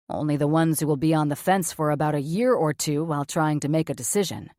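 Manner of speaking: blunt surgeon, low and flat. Acted. Cameron's voice, lower.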